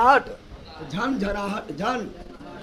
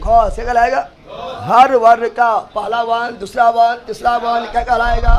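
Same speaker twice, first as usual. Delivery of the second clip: louder classroom call-out; loud drill question; 6 dB louder than usual. Real, not acted. Teacher loudly quizzing students on consonants, loud call. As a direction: call it out so the back row hears.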